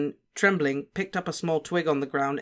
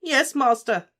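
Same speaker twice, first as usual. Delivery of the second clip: higher, louder miserable moan; 11 semitones higher, 5 dB louder, slower than usual. A narrator's reading. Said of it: "moaned Wormtail".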